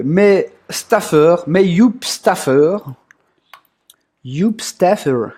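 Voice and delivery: slow, mock English accent on staffers; bad English accent. Streamer calling his staffers in a bad English accent. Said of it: "avec mon accent anglais de merde".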